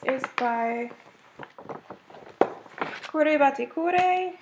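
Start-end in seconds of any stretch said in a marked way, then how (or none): 3.1-4.3 Kure Batikure said slowly and higher in an American accent; American-accented name. Real, not acted. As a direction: sound out Kure Batikure carefully with American vowels. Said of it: "Forgive my American accent there".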